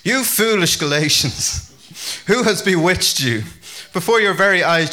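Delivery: indignant Paul. Acted. Paul rebuking the Galatian church he isn't a fan of, indignant. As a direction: read it as a stern reproach to them. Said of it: "Paul wasn't a big fan".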